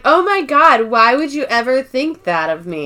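high, shocked innocence; hammed-up fake outrage; mock offended. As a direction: play the wronged innocent. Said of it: "She's like".

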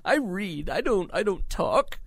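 put-on high wavering old lady voice; very old woman. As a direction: put on a frail granny voice. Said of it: "That voice you were doing is very old womany".

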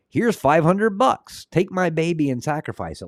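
high, slow, eager mock voice offering the baby; hammed-up gullible buyer, drawn out; mock naive parent. Podcaster mocking a parent, high and slow.

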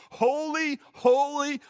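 high, loud ringing cry of worship; soaring heavenly shout; angelic scream. Retold or imitated. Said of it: "screaming out at the top of their lungs".

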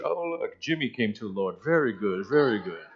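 put-on a hushed, prim British accent, lightly done; mock British angels. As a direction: murmur it like a polite English churchgoer, a touch hammed-up. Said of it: "I don't think they're all going to be British".

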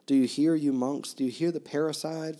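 flung accusation. Acted. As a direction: hurl it at the monks. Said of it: "flung at Father Yosef".

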